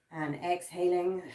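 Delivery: slow it right down on "and exhaling"; drawn-out exhale cue. Shown as a demonstration. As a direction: stretch "exhaling" slowly, easing the breath out. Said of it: "four breaths".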